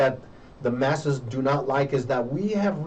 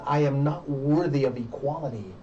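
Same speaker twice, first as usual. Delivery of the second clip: voicing self-doubt; 2 semitones higher than usual. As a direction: act out someone convinced they are unworthy. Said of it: "internalized that inferior status and said".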